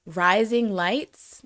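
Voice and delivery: "rising lights" drawn out very slowly; sounding-out demo. Shown as a demonstration. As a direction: stretch "rising lights" out slowly, ending on a rise. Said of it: "if you say".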